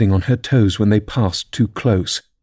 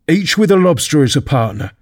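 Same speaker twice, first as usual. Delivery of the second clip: higher, mildly excited Gryphon; animated interjection, a touch raised; crying out; 4 semitones higher than usual. Acted. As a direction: chime in with energy. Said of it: "cried the Gryphon".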